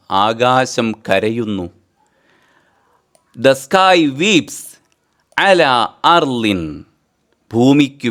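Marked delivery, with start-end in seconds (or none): 3.3-4.8 slow dictation. Shown as a demonstration.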